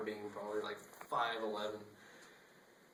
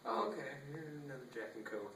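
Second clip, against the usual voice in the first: bartender voice; 5 semitones higher, 3 dB quieter than usual. Retold or imitated. Bartender voiced, high start.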